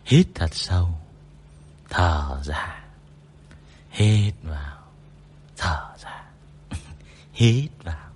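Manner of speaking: lightly done soothing sleep-guide voice; mock hypnosis. Shown as a demonstration. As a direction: talk them down to sleep, half playful. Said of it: "Thôi miên đi vào giấc ngủ".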